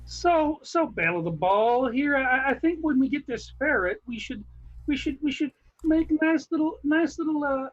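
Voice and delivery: easygoing Southern husband voice; Southern accent. Acted. Husband planning the ferret cage, lightly Southern. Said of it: "Mark, go ahead, do Southern".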